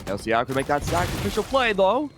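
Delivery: excitable, amateur Aussie commentary; bad Australian accent. Caster attempting Aussie for a round, excited mock Australian. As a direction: have a go at Steve Irwin's Australian accent. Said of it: "watching videos of Steve Irwin".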